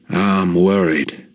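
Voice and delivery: slow, lightly shaky dying father; a touch of tremble in the words; understated shaky confession. Retold or imitated. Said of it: "in this real shaky voice".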